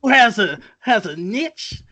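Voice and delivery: lightly mocking Southern drawl; put-on Southern accent; Southern detective drawl. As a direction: stretch it like a Southern sleuth. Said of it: "He's a southern detective".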